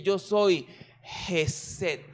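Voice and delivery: very slow, tender declaration; tender voice of God. Acted. The Lord declaring loyal love to his people, tender and slow. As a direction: let the Lord promise his love, slowly. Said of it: "el Señor dice".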